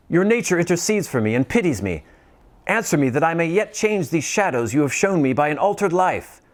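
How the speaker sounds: put-on high, pleading old man voice; pleading Scrooge. Scrooge pleading with the silent spirit, high and desperate. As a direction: beg the spirit for mercy.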